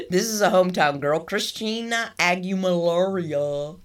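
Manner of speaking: mock show introduction; imitated show announcer. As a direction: stretch the star's name like a show host. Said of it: "they said it like that".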